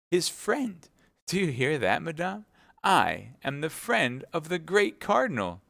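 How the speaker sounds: high, slow puffed-up husband; pompous boast. Acted. Husband boasting to his wife of the cardinal's friendship, slow and puffed-up. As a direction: savour every word of your own importance.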